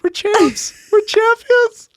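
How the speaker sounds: high, loud gloating champions chant; drawn-out laughing victory shout; mock triumphant cheer. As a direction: crow it like a winning team. Celebrating winning team.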